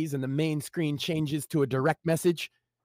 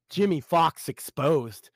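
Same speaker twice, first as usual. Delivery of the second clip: slow title read; 3 dB louder, slower than usual. Acted. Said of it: "read the title".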